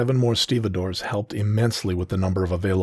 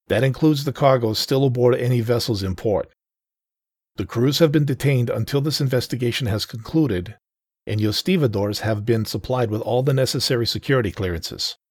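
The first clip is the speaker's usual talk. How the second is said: stern federal agent; 4 semitones higher than usual. Acted. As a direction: address the workers with authority. Agent continues briefing.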